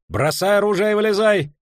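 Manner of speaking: high yelled order to surrender; shouted command. A narrator's reading. Knight demanding weapons be dropped, shouted command.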